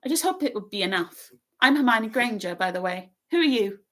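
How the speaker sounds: high, rapid bossy chatter; very fast. A narrator's reading. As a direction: rattle it all off in one breath. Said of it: "She said this all very fast".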